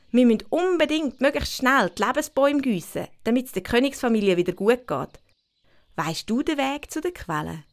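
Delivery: put-on a thrilled kid who wants to sneak closer; excited girl voice. Winnie voiced in story.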